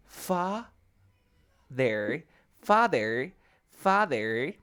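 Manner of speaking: father with a plain hard D; normal D. Shown as a demonstration. English teacher shows student father with normal D, demonstrative. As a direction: say father with an ordinary D, in separate beats. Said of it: "escucha cómo voy a pronunciar la D normal".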